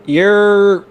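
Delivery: high loud entrance yell; hype shout. Acted. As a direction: shout it like a crowd pop. Co-host entrance call.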